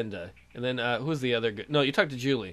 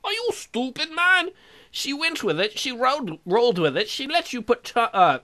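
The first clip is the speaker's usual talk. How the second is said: much higher and louder, disbelieving excitement; thrilled shout; 8 semitones higher, 4 dB louder than usual. Real, not acted. Player cheering that she went along with the kiss.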